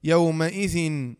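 يومئذ drawn out slowly with the kasra clear on the final nun; teacher slowly modelling يومئذ for students; slow spelled demo. Shown as a demonstration. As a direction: say يومئذ syllable by syllable, ending yawma'idhin. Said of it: "يكسر لالتقاء الساكنين".

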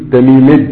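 تميمج ending in ج; final ي of تميمي said as ج; Quda'a 'aj'aja. Shown as a demonstration. Teacher showing Quda'a dialect, ya turned to jim. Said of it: "الياء المشددة جيما".

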